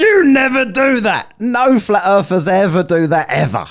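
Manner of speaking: high, loud scoffing retort; incredulous outburst. Real, not acted. Streamer scoffing at the flat earther, loud high outburst. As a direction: blast it back at the screen.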